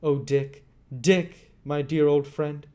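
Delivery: put-on high boyish voice, full of longing; a boy aching to see his old friend; young Oliver. Oliver to Rose about Dick, high and yearning.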